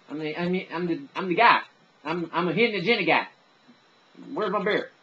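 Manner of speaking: mock reality-show bro, stumbling and repeating himself; Wes from The Bachelorette. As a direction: play a beer-loving dude fumbling for words. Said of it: "my little skit from, uh, from The Bachelorette".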